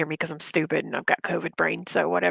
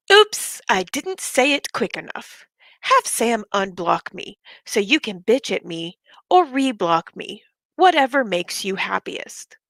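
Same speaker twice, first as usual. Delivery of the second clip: dramatic reading. Shown as a demonstration. Reading the second message aloud to viewers, dramatically. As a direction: pop the first word, then recite. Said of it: "I'm going to be reading it dramatically".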